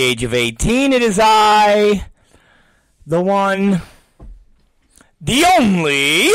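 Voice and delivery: slow, grandiose ringmaster announcement; hammed-up grand introduction; mock showman intro. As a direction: announce yourself like a circus ringmaster.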